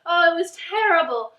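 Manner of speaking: hammed-up book bashing; mock rant reviewer. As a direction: act out a gleeful hater. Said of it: "making a rant review like".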